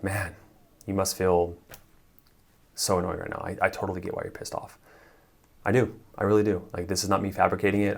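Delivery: mean every word; sincere. Shown as a demonstration. Coach showing the right way to reflect, sincere. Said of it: "It's like".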